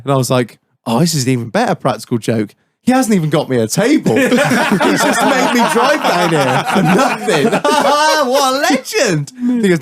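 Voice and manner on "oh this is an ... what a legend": building from level to high, laughing; retold amused delight. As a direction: break into laughter as you marvel. Retold delight at practical joke.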